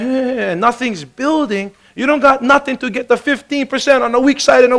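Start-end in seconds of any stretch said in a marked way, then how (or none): 0.0-1.7 mock discouraged mumble. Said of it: "if you sit over here going".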